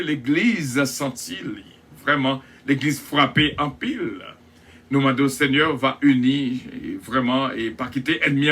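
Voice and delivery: earnest spoken prayer. Acted. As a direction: pray for the listeners, fervently. Leads a prayer on air.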